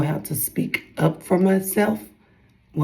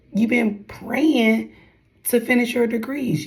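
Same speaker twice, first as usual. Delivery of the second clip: scolding herself; 5 semitones higher than usual. Retold or imitated. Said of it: "'cause I was like".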